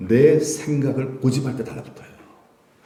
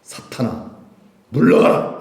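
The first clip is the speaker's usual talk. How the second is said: stern rebuke; 3 semitones lower than usual. Acted. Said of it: "베드로를 향해서".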